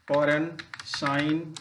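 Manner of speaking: फॉरेन and शाइन ending in plain N, no G; silent G. Shown as a demonstration. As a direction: drop the G before N in फॉरेन, शाइन. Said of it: "pronunciation नहीं करते हैं".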